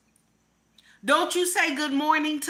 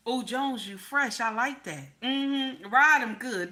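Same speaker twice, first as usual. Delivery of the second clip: husband's praise; slower than usual. Retold or imitated. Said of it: "That's what he said".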